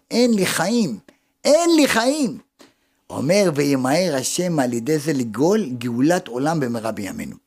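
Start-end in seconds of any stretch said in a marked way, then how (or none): 0.1-2.4 acted plea, climbing much higher on the repeat; desperate cry to God. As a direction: cry out helplessly, building in pitch. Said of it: "אכן כשאדם צועק". (זעקת ייאוש מוצגת, הולכת וגובהת)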